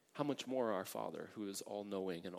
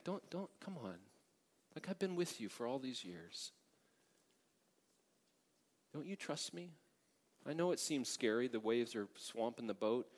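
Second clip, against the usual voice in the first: tender challenge; 2 semitones higher than usual. Acted. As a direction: gently press them to trust. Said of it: "as he is challenging them".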